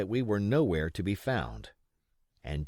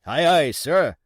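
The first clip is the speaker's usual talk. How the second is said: loud eager pirate reply; pirates answering; 6 semitones higher, 10 dB louder than usual. Acted. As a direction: shout it back to the captain. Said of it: "answered two or three".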